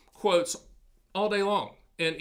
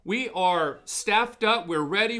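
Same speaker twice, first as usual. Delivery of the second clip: proud, slow announcement; 2 semitones higher, 4 dB louder, slower than usual. Real, not acted.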